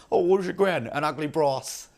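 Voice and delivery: mock grandkid question and blunt reply; imagined kid asking. Father imagining his kid asking about gran, mock voices.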